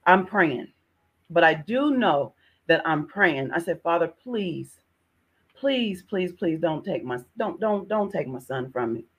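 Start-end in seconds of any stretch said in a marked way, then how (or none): 3.8-9.1 pleading prayer. Retold or imitated. Mother retells her prayer.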